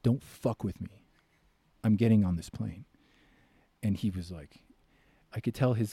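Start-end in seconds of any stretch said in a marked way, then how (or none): 0.0-2.9 firm threat. Retold or imitated. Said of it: "I look him in the eye".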